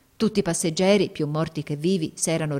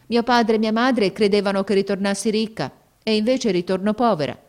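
put-on girl's voice; 4 semitones higher, 5 dB louder than usual. Girl tells her story.

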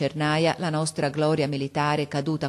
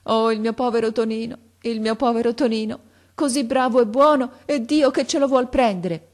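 high, louder wail of a grieving mother; acted sobbing lament; 7 semitones higher, 5 dB louder than usual. A narrator's reading. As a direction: lament in a raised, pleading voice, as storytelling. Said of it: "La madre scoppiò in singhiozzi".

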